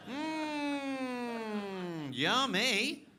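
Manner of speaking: a put-on greedy yum; mock savouring. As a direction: savour it like a treat, hammed up. Savouring a pastry.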